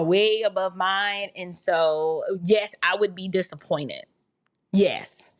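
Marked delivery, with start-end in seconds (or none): 4.7-5.3 whispered yes. Real, not acted. Quiet aside agreeing.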